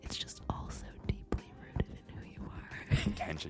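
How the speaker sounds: quiet, intimate whisper. Speaker acts out a man whispering nose to nose to another; retelling a whisper. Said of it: "and he's like whispering".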